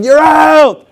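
acted, drawn-up ruling; referee's call. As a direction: call it out like a ref.

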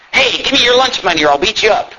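lightly voiced threatening bully; comic-book bully. Bully grabbing kids for lunch money, hammed-up threat. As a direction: read it as a cartoon bully. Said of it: "This is a bully grabbing some kids".

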